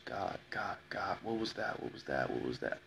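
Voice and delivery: frightened whisper. Retold or imitated. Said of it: "It was".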